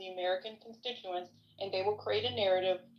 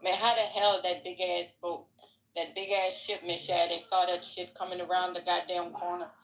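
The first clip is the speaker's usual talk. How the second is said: put-on Louisiana accent. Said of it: "I have to say it in his Louisiana accent".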